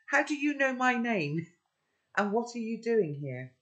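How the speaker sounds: put-on high, alarmed young girl; startled girl voice. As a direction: demand answers, startled. Sophie's voice in the story.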